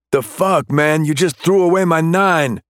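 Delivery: high, indignant outburst; can't believe he did that; outraged protest. Acted. Suspect outraged gun thrown away.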